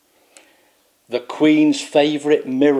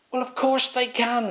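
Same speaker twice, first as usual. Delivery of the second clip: pompous knight; 12 semitones higher than usual. Acted. Swaggeralot retorts.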